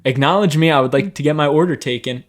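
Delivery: high, loud demanding customer calling out; impatient customer. Retold or imitated. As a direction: wave down the waiter, hey I exist.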